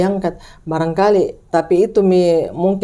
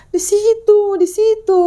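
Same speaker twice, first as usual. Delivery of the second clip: retold scream; 12 semitones higher, slower than usual. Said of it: "Jadi dia teriak mi".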